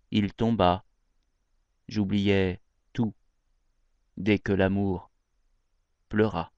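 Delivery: measured poetry reading with pauses between phrases; poem recitation. Acted. Reading Marceline Desbordes-Valmore's poem Son image aloud, poetry recitation. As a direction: recite it line by line, letting each phrase land.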